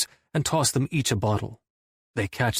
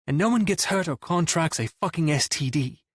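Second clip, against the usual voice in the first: pointed, raised stress on "fucking S T D"; emphasis on last bit; 6 semitones higher than usual. A narrator's reading. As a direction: lean hard on "contracts a fucking S T D". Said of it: "I don't miss the emphasis on that last bit".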